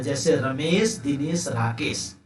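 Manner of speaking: "Ramesh, Dinesh, Rakesh" with a slight break after each name; short comma pauses. Shown as a demonstration. Teacher shows students the comma, brief pauses between "Ramesh, Dinesh, Rakesh". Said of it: "थोड़ा सा रुक करके हम बोल रहे हैं".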